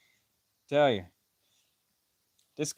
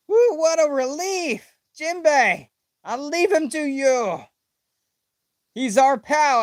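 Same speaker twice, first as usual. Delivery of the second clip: toned-down high read; 10 semitones higher, 3 dB louder than usual. Acted. Rereading the relief line a touch calmer. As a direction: still high but less squealy. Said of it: "I don't know why I'm reading it like that".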